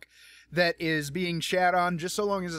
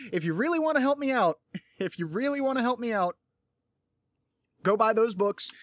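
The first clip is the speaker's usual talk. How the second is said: higher voice breaking in with chuckles; laughing plea; 6 semitones higher than usual. Real, not acted. Podcaster begging listeners to buy books, laughingly. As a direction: plead through a laugh.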